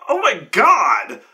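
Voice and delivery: high, slow, loud exclamation; exasperated. Retold or imitated. Player reacting to the DM allowing the trick, exasperated. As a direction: drag it out in disbelief. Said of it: "I was like".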